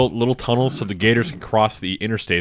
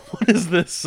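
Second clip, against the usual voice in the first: put-on cheesy Danish accent; 8 semitones higher, slower than usual. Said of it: "his accent's kinda cheesy".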